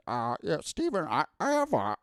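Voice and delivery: rising, halting George R R Martin voice; hesitant fan asking Stephen King; George R R Martin impression. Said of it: "that was a pretty good George R R Martin impression".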